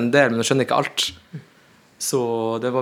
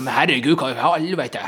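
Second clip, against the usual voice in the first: blunt, hard-edged, harsh outburst. Imitating how northerners a generation older talk, mock-hard, like older northerners. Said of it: "Sånn litt sånn hardt".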